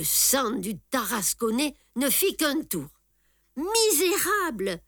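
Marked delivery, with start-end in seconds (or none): 3.6-4.8 thunderous cry. A narrator's reading. Tartarin crying out at the lion's keepers, thunderous. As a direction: roar it like thunder at the beggars. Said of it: "cria-t-il d'une voix de tonnerre".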